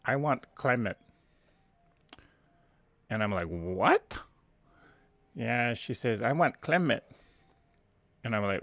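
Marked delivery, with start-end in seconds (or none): 0.1-1.0 put-on mom's heavily accented English, mispronouncing the word; mother's Asian accent. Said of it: "her heavy Asian accent, she says". 3.5-4.1 puzzled "what?" with rising pitch; retold confusion, voice lifting into a question; baffled. Baffled son reacting to mother. 6.2-7.0 put-on higher-pitched mom with a heavy Asian accent; mother's Asian accent. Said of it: "her heavy Asian accent".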